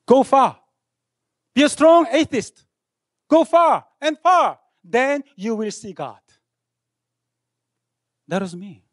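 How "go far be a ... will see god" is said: quoting Pascal. Retold or imitated. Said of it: "he said".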